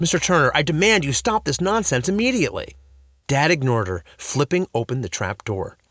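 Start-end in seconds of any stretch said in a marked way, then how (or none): 0.0-2.8 loud, firm demand; stern demand. A narrator's reading. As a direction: demand he stop. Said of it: "principal rushed forward demand".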